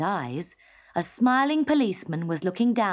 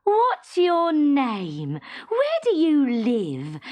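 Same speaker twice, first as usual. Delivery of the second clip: high, slow, delighted questions; happy mother; 7 semitones higher, 5 dB louder, much slower than usual. A narrator's reading. Happy mother asking Teddy his name, delighted. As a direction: ask eagerly, beaming. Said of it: "asked the happy mother".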